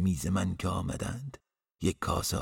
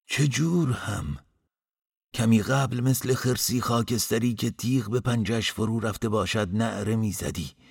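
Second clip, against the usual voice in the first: loud, high indignant complaint; exasperated scolding; 5 semitones higher, 5 dB louder than usual. A narrator's reading. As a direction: tell them off in raised voice. Innkeeper scolds him for screaming. (سرزنش کلافه با صدای بلند)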